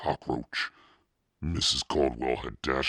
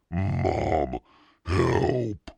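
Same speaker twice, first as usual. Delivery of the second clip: higher, louder panicked cry for mom; screaming for help; 5 semitones higher, 5 dB louder than usual. A narrator's reading. Scared boy calling his mother, panicked cry. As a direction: yell for rescue in terror.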